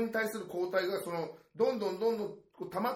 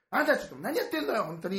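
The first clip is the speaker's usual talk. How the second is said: high, sharp scolding mom; scolding mother; 5 semitones higher, 3 dB louder than usual. Retold or imitated. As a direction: scold a child in the park. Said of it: "お母さんがこう注意する時".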